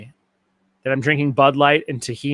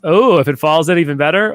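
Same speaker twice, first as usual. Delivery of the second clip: louder, hammed-up imitation of himself; mock version of his own voice; 4 dB louder than usual. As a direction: parody his own line, a bit brasher. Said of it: "That's what she says".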